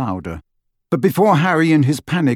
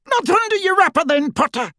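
high-pitched taunting yell; Death Eater's yell. A narrator's reading. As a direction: yell it out at a hidden quarry. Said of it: "yelled the Death Eater".

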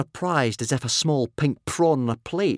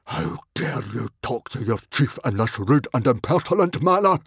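indignant outrage; 2 semitones higher than usual. A narrator's reading. Chief rebuking a rude boy, outraged. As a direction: bluster with mounting outrage.

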